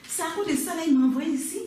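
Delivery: high, loud indignation; outraged disbelief. Acted. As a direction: exclaim it, scandalised and rising in pitch. Wife outraged at husband's complaint.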